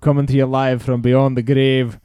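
put-on David Hume back from the grave in a Scottish accent. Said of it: "I can't do a Scottish accent".

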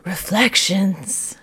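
slow, drawn-out store name; sultry imitation. Podcaster copying how Louise says the store name, slow and suggestive. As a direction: linger teasingly on each syllable. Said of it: "just the way that Louise says it".

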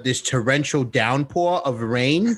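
countryish twang, badly passed off as Floridian; attempted Floridian accent. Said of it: "that is not a Floridian accent".

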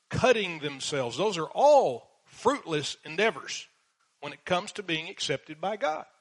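fervent preaching. Real, not acted. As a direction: preach it hard, driving each phrase home. Preaching at full force.

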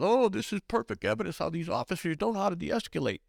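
high-pitched mock outcry, no real volume; hammed-up, high activist complaint; mock yelling. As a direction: imitate an outraged activist up high. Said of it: "yelling and screaming".

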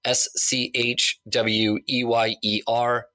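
slow letter by letter spelling. Shown as a demonstration. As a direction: spell each letter out slowly. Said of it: "P as in Peter".

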